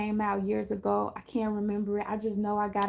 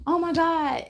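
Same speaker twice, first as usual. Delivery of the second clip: amazed gasp; 7 semitones higher, 6 dB louder than usual. Retold or imitated. Imitating amazed helped person.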